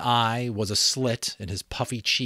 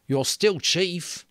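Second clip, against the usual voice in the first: lightly voiced boy, a bit higher; Piggy's voice; 10 semitones higher, 4 dB louder, slower than usual. Piggy answering Ralph, a lightly voiced boy.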